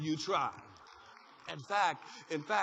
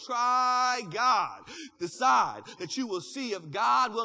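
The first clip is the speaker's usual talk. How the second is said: shouted urge; 5 dB louder, slower than usual. Real, not acted. Preacher urging congregation.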